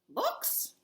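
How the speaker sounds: puzzled rising question; he has never heard of books; confused. Acted. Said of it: "looked confused".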